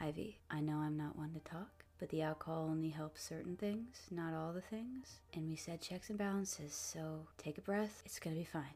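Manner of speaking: soft murmured whisper close to the ear. Game master voicing a character who pulls another aside to speak in her ear: whispering. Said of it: "leans down and whispers in your ear".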